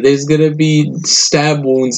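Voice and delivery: drawn-out, high-pitched inner wail; mock dread. Worker imagining the screwdriver attack, mock dread. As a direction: stretch it out high, lightly playing doomed. Retelling his panicked thought of being stabbed.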